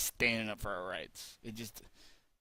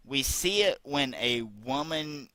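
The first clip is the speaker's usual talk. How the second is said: slow mocking read, a bit louder; mocking quote voice; 3 semitones higher, 3 dB louder, slower than usual. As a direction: mimic her words slowly. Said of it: "This is an exact quote".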